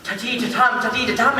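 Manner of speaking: "Ta-tee, ta-tum" chanted in da-DUM rhythm; mocking verse meter. Actor fed up with verse, "Ta-tee, ta-tum" in mocking rhythm. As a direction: beat out "Ta-tee, ta-tum" as singsong iambs.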